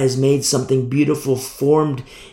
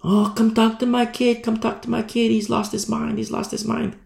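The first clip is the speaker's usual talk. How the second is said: high, pleading parent voice; frantic parent; 10 semitones higher than usual. Retold or imitated. Parents calling the preacher about their kid, high and pleading. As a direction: play a panicked parent begging for help. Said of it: "Parents call".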